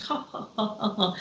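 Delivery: soft, put-on ha-ha laugh; pretend laugh. Would have laughed to show it hadn't bothered her, pretend laugh. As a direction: imitate laughing off a hurt. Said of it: "I would have laughed".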